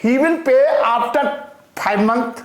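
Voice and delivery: very slow, word by word dictation; crawling dictation pace. Shown as a demonstration. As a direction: dictate it slowly for note-taking. Teacher dictating slowly to class.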